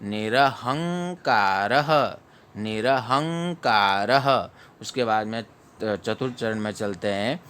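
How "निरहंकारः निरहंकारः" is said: निरहंकारः slowly, with the final visarga ः kept short; teacher models a fast visarga in निरहंकारः; quick visarga. Shown as a demonstration. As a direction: drill निरहंकारः, the ः clipped quick. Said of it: "fast पढ़ा जाएगा".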